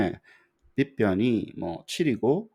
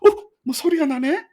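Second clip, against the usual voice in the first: much higher, surprised learner's reaction; mock surprise; 7 dB louder than usual. A learner reacting to sudden sound from the screen, mock surprise. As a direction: play a pupil perking up at a sound.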